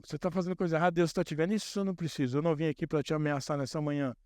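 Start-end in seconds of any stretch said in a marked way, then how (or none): 0.0-1.5 lightly accusing warning tone; a mild finger-wagging threat; mock threat. Shown as a demonstration. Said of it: "em tom de, é, ameaça".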